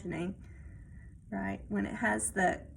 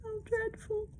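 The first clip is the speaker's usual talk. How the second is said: dread; 12 semitones higher, 7 dB quieter than usual. Acted. Kitten reacting with dread.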